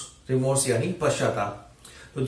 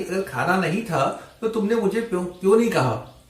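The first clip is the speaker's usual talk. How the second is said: angry mimicry; 6 semitones higher than usual. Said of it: "उसने बेटी की आवाज में, मिमिक".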